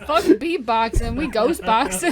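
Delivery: loud, slow, laughing through words; laughing loudly. Real, not acted. Laughing after the ghost impression.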